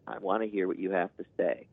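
calm, open parent. Retold or imitated. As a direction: say it gently to your child. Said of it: "And now I say".

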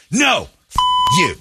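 high-pitched mock cursing; mimicked angry outburst. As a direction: imitate her flaring up at him, pitch jumping. Mimics wife cursing in fight.

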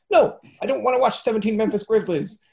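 high, laughing exasperation. Retold or imitated. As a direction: complain through laughter. Annoyed search user, laughing.

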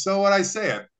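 teasing coach challenge. Retold or imitated. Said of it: "and he goes".

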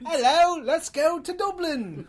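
hammed-up high Irish accent; a jokey stage-Irish voice, slow and high; mock Irish accent. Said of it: "That's pretty much any accent".

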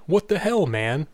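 mild mock outburst, high start falling away; all-caps outburst. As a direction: read it as if in capitals, lightly exclaimed. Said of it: "in all caps".

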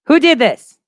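hammed-up demand who did this; mock outraged shout. Real, not acted. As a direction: call out did in playful outrage. Repeats question, then laughs.

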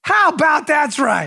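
high, drawn-out mock announcer call; slow, playful sports announcer exclamation; baseball show catchphrase. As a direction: stretch it out like a baseball highlight host. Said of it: "This week in baseball".

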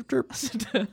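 chirpy high bird call; bird chirp. Pretend. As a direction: tweet it like a little bird. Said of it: "why that required a chirp".

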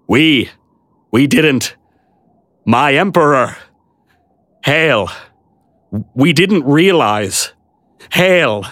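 lightly voiced, halting abashed knight; abashed bewilderment. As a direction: stammer it out, a bit bewildered. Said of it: "in abashed bewilderment".

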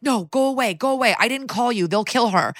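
high, lightly acted panic; desperate pleading. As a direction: imitate a frantic man begging them off. Desperate man shoos the police away.

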